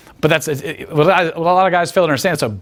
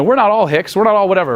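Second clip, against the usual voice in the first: imitating the girl; 5 semitones higher, 3 dB louder than usual. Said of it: "she's gonna say".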